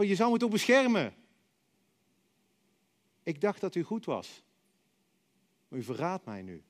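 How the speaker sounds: rising panic then a hurt hush; frightened child pleading. Retold or imitated. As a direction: plead with papa like a child being held down. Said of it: "ik kon in haar ogen zien".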